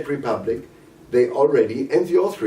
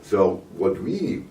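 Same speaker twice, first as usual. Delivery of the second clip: hoarse, voice failing; losing voice; slower than usual. Real, not acted. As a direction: voice giving out mid-sentence. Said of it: "sorry, I, I lost my voice".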